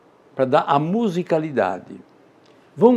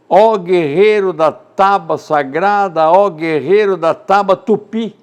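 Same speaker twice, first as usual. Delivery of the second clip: slow, louder heroic declamation; poem recitation; 5 semitones higher, 6 dB louder than usual. Acted. Teacher quotes Gonçalves Dias, declaiming loudly and slowly. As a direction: proclaim it like a call to a warrior. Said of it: "Gonçalves Dias".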